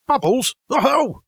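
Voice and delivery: high, bright-eyed exclamation of surprise; cheery chirrup. A narrator's reading. Rat to mole on hearing of bubbles, chirruping cheerily. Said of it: "chirruped cheerily in an inviting sort of way".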